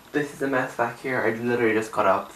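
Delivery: raspy, just woke up; freshly woken, rough throat; raspy morning voice. Real, not acted. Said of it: "That's why my voice is so raspy".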